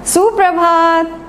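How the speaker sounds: bright, loud call to the class; cheery greeting. Real, not acted. Teacher greeting her pupils, loud and cheerful.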